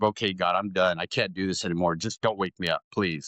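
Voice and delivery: low, resigned plea to God; acted-out defeated bedtime prayer; weary prayer. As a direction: pray it low, worn out and giving up. Acting out his old bedtime prayer.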